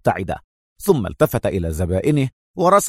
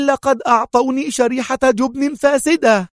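high, louder convincing fury; sharp feigned anger; 13 semitones higher, 4 dB louder than usual. A narrator's reading. Mona insisting to Antonio, high and sharp. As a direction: snap it so it sounds real. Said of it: "قالت في حدة بدت طبيعية".

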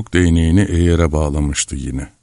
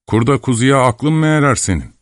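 high-pitched, incredulous question; indignant scolding; 8 semitones higher than usual. A narrator's reading. Mother doubting her young son, indignant. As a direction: challenge the boy, voice pitched well up. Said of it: "diye bağırdı".

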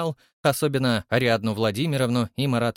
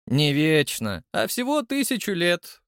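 mildly irritated, climbing much higher; irritated correction; 7 semitones higher than usual. A narrator's reading. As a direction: correct him, annoyed at his stubbornness. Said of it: "раздражённый его упрямством". (раздражённо поправляя, всё выше)

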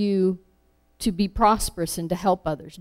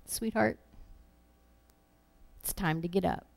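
put-on soft, gentle wake-up call to a child; a parent gently waking a sleeping daughter, tender; 9 dB quieter than usual. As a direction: coax a little girl awake softly. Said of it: "it's almost like saying".

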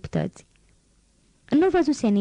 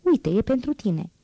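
slow, higher, kind offering of a gift; gentle offer; 4 semitones higher than usual. Acted. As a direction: hand the doll over tenderly. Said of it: "O puse în picioare în fața Cozetei și îi spuse".

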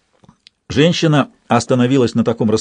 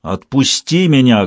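powerful command; slower than usual. Acted. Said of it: "прозвучал властно и мощно".

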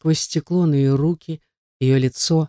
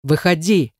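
barked order. A narrator's reading. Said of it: "рявкнул".

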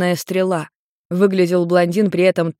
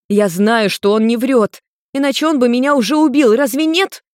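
rising higher and louder to the end; heated pleading; 6 semitones higher, 4 dB louder than usual. A narrator's reading. Maimi defending Nergal to Ian, building high and loud. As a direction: argue him down, building.

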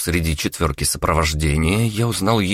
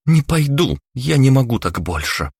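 desperate refusal; 7 semitones higher than usual. Acted. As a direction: shout her refusal then break off. Daughter refuses mother again.

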